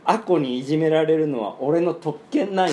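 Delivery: made-up regional accent, lightly acted; loosely Kansai-accented character quote; Kansai-like dialect. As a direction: manga hero's line in a Kansai-style lilt. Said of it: "関西弁だったの？".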